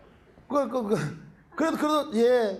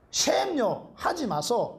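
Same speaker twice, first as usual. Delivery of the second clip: put-on a kid pleading in Busan dialect, pitched up; Gyeongsang dialect plea; 3 semitones higher, much slower than usual. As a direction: beg the teacher in Gyeongsang dialect. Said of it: "경상도 말로 하지 말라는 거예요".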